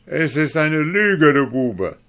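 high, loud angry accusation; furious duke. Acted. Duke accuses the dwarf of lying, furious. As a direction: scream it at the liar. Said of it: "erwiderte der Herzog".

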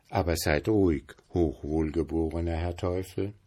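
bow to him while laughing at him; mocking. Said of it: "spottete der Geselle".

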